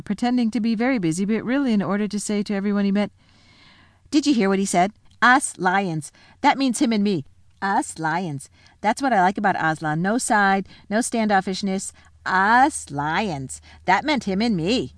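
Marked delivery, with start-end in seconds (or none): 4.1-14.9 excited, proud other lion; the other lion boasts about being called a lion; boastful lion. Acted. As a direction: brag to everyone you meet.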